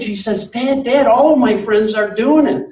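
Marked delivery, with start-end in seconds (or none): 0.5-1.1 very high, eager calling out to dad with a laugh; excited daughter. Retold or imitated. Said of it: "She's all excited". 1.1-2.7 high and louder, thrilled and laughing; excited daughter. Retold or imitated. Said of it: "She's all excited".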